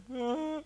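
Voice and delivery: mock crying "ah"; brief imitated wail; imitated child's wail. Father mimics his son arriving in tears, mock wail. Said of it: "udah nangis dia".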